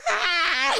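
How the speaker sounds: high, held-back "ah"; mock scream. Roach victim leaps out of car, mock scream. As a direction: re-enact a scream without full volume. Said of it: "like, screaming with my arms up".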